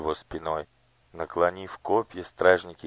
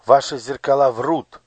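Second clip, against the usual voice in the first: put-on louder, indignant boy; angry; 7 semitones higher, 10 dB louder than usual. A narrator's reading. Gurt angrily defies the minister. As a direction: fling the accusation. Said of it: "гневно проговорил он".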